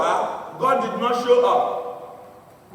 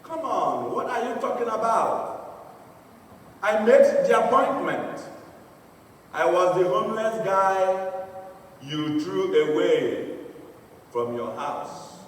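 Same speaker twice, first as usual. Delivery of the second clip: calm. Retold or imitated. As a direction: act out God answering calmly. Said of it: "God calmly said".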